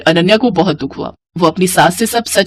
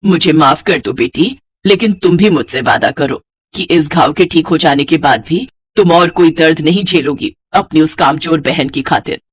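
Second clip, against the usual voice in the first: tender, lower-pitched mother-in-law; loving apology; 5 semitones lower than usual. Acted. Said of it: "बड़े प्यार से बोली".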